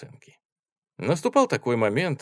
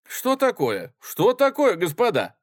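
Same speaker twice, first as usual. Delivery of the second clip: high, loud hurried intervention; alarmed; 11 semitones higher, 6 dB louder than usual. Acted. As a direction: rush in to calm it. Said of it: "заговорил быстро".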